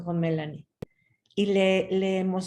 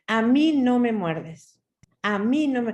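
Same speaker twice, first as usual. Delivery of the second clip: firm; 3 semitones higher, 4 dB louder than usual. Shown as a demonstration. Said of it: "A ver, firme".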